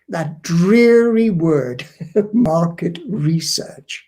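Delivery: slow, weary drag over the words; dreary. Real, not acted. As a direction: sound bored by the very term. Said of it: "I find it dreary".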